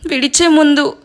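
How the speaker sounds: story narration. A narrator's reading. A narrator reading a sad love story to viewers, in a calm storytelling voice. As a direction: gently read story, told with feeling.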